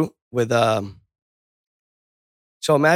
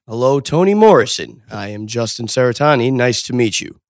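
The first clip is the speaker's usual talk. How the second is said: loud, stilted anchor voice; mock newscaster; 5 dB louder than usual. Mocking how anchors would talk in normal conversation, loud. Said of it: "do they talk like that in fucking normal conversation".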